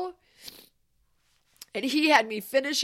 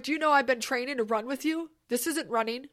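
trainer's fired-up rant; 4 dB louder, faster than usual. Retold or imitated. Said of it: "He's like".

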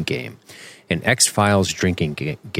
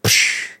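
short, hissed "psh" like a slap; quick vocal slap effect; imitated slap sound. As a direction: mimic a slap with the mouth.

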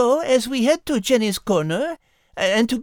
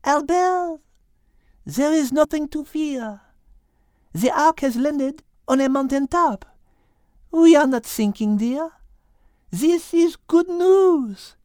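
gently soothing a frightened friend; calming; 2 semitones higher than usual. Acted. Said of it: "wishing to calm Al's fears".

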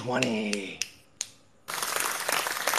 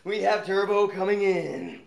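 grand entrance announcement. Acted. Introducing contestants like fight.

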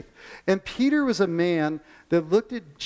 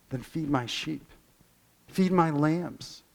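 gentle command; slower than usual. Retold or imitated. Jesus gently commanding Peter.

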